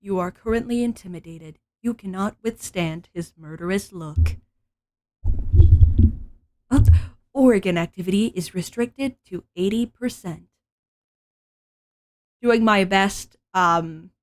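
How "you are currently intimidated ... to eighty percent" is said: calm announcement-style flight attendant voice. Acted. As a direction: read it like a cabin announcement. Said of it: "flight attendant voice".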